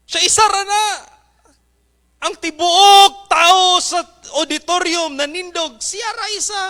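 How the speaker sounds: very high, loud anguished outcry; violinist's cry. Acted. Violinist telling the crowd, high and loud. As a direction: cry out about the one who sat.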